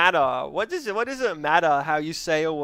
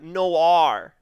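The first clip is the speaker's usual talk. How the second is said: louder American "Noir"; 5 dB louder than usual. Shown as a demonstration. Gamer going into America voice to say Noir, American accent. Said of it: "America voice to say it like that".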